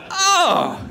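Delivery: very high, drawn-out mock amazement; amazed reaction. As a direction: play a friend blown away, slowly. Friend amazed by the trick, acted.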